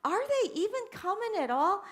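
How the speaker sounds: high, loud fretting; worried grandma wondering aloud; anxious high call. Retold or imitated. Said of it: "I'm like".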